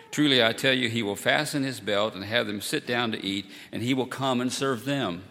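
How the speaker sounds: measured, solemn reading of the gospel; scripture reading. Acted. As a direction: read it like the Sunday lesson. Reads the gospel lesson.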